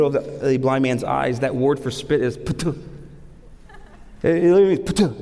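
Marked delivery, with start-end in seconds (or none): 2.4-2.8 quick imitation of a spit; spitting sound. Shown as a demonstration. Preacher explaining the word for spit, imitated spitting sound. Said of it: "It's the sound of a spit". 4.9-5.2 sharp imitated spit; spitting sound. Shown as a demonstration. Preacher showing what the word literally means, imitated spitting sound. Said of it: "It's the sound of a spit".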